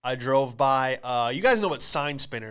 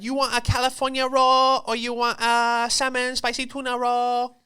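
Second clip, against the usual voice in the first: high-pitched imitation Asian accent; put-on Asian accent of a server; mock Asian accent; 10 semitones higher, 4 dB louder than usual. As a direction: take an order in an exaggerated fake Asian accent. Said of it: "she's just doing this Asian accent".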